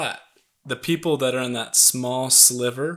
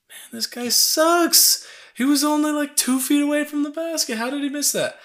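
scoffing sports fan; 6 dB louder than usual. Retold or imitated. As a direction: sneer like a fan who's fed up. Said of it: "you're like".

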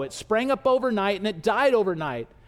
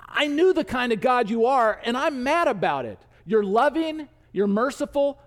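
mock complaint to God, pitched higher; mildly mad; 4 semitones higher than usual. Jonah complains to God about his mercy, mildly mad. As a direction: play a touch of indignation, raised pitch. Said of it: "he's mad while he's saying it".

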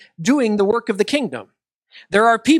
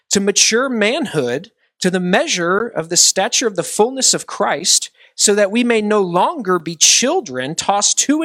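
measured, lifted reading voice; scripture reading. Acted. Pastor reading Ephesians to the congregation, measured and lifted. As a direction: read the verses out with weight.

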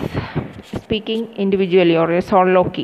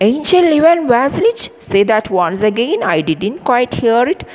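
joyful exclamation; 4 semitones higher than usual. Acted. Father overjoyed at the proposal, high joyful exclamation. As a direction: greet the news with delight. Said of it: "So Shubukov joyfully".

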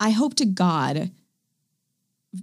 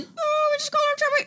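high, sly line out the side of the mouth; a high, awkward sideways remark; Hugh Grant aside. Retold or imitated. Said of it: "in the side of his mouth".

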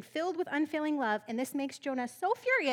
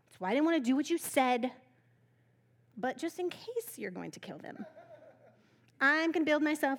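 mock yelling. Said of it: "Jonah yells at God".

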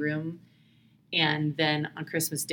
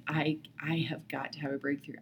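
whisper; 5 dB quieter than usual. Retold or imitated. Desperate inner plea, retold.

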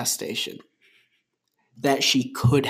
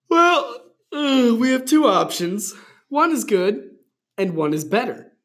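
pitched way up, puffed-up and pleased; high-pitched character voice; 7 semitones higher, 4 dB louder than usual. Acted. Reading the boy's line to the girl, high and smug. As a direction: play it big and smug, high above your own voice. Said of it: "I said".

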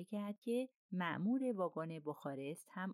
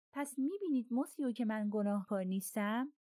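higher, agitated appeal of innocence; excited cry; 5 semitones higher, 4 dB louder than usual. A narrator's reading. Conductor insisting to the investigators he is innocent, excited cry. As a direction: plead your case excitedly, voice raised. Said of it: "میشل هیجان زده فریاد کشید".

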